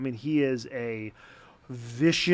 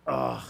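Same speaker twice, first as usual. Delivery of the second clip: drawn-out "ugh" of self-reproach; groan, fed up with yourself; weary groan at your own mistake; exasperated groan. Retold or imitated. Frustrated with himself over parenting mistake.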